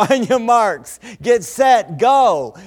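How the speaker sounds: loud, high race-start countdown with a laugh; starting call. Real, not acted. Preacher launching the congregation into the recitation. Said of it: "Here we go".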